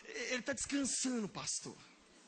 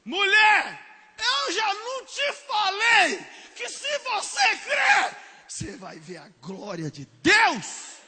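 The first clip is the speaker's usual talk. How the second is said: high, slow, booming rebuke; loud exasperated Jesus; 10 semitones higher, 12 dB louder, much slower than usual. Acted. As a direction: thunder the rebuke at her. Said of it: "não põe altura de voz". (Jesus repreendendo aos brados)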